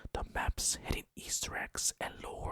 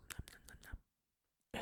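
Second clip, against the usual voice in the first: soft, slow whispered nom-nom; playful whispered munching; 10 dB quieter, slower than usual. Pretend. Jumpy jack aliens trying to bite at you, whispered munching. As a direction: whisper nibbling noises, slowly and softly.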